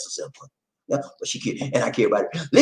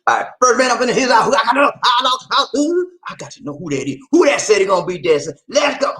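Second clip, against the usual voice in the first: excited shouting; 4 semitones higher than usual. Real, not acted. Hyping the next dancer up.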